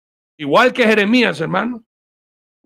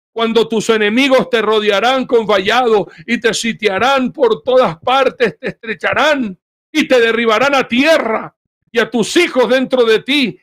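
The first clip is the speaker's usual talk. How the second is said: lamenting; 5 semitones higher than usual. Retold or imitated. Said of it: "llorando sobre Jerusalén, llorando, diciendo".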